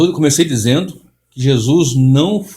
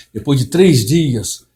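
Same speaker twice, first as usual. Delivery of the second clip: slow, puffed-up pulpit drama, falling at the end; mock the inflated preaching voice; theatrical preacher; much slower than usual. Imitating famous pastors' inflated voice, slow and solemn. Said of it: "Empola a voz, afina a voz".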